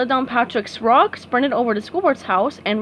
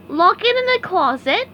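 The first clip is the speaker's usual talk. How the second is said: SpongeBob voice; 9 semitones higher, 4 dB louder than usual. A narrator's reading. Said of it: "explained SpongeBob".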